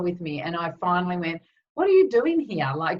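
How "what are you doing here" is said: a sudden high, louder cry of surprise; startled outburst. Retold or imitated. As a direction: blurt it out, caught off guard by a ghost in the car. Startled by dad in car.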